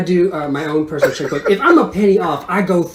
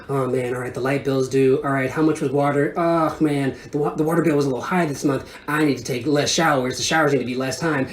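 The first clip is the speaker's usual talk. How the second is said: worried muttering; 2 semitones lower, 3 dB quieter than usual. Retold or imitated. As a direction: fret under your breath, mock-serious. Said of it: "having cold sweats about".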